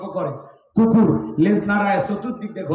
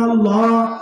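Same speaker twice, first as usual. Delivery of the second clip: loving call; 2 semitones higher, 4 dB louder, slower than usual. Shown as a demonstration. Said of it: "একটু ভালোবেসে ডাক দিয়ে বলেন".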